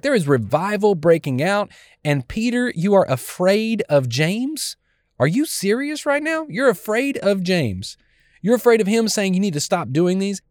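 furious Paul. Retold or imitated. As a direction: demand it of Peter in disbelief. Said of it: "has got to be furious".

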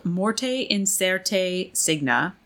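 Morte Incerte Signa read slowly, every vowel sounded; amateur Latin pronunciation. Shown as a demonstration. Host reading out a thesis title, Morte Incerte Signa in careful amateur Latin. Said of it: "I'm not great at pronouncing Latin".

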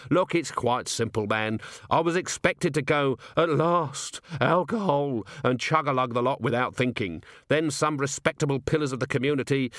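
lightly voiced weary commander explaining; wry, exasperated watch commander. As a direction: spell it out with dry, lively impatience.

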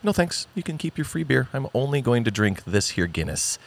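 put-on light, high Irish-accent refusal. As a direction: turn down the offer in an Irish accent. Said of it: "Do you want me to do the accent?".

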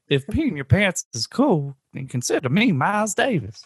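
put-on old lady quote. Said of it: "She's like".

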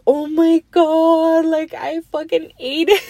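half-laughing at her own wipeout; laughing disbelief. Retold or imitated. Recalling the crash to viewers, high laughing disbelief.

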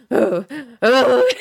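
imitated nightmare moaning; zombie moans. Imitating Dad having a nightmare in bed, zombie moans. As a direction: moan like a restless sleeper, half laughing. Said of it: "two little zombie moans".

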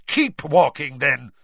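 loud angry snarl. A narrator's reading. Snape ordering Harry and Ron off, loud snarl. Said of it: "Snape snarled".

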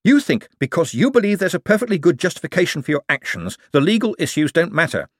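high-pitched exasperated rant; worked-up, indignant tirade; hysterical. A narrator's reading. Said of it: "no need to get hysterical".

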